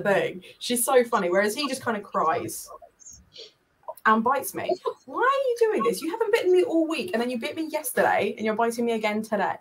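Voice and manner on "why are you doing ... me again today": mock complaint. Real, not acted. Complaining to biting cat.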